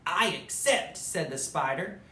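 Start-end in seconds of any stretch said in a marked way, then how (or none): 0.1-1.0 joyful acceptance. Acted. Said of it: "with joy and delight".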